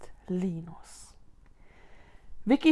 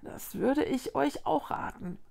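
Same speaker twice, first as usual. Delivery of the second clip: soft, hushed advice in a higher voice; hushed tree voice; murmured; 5 semitones higher, 6 dB quieter than usual. A narrator's reading. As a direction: murmur it confidentially. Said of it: "raunte die Tanne".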